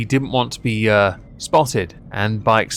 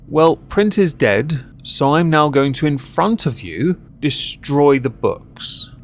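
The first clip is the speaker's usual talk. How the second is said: mock smug vandal; 3 semitones higher, slower than usual.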